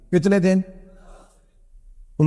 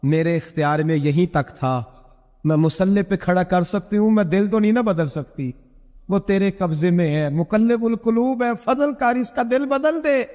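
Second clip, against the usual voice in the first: tearful prayer; 3 semitones higher than usual. Retold or imitated. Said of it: "میں نے رو کے کہا".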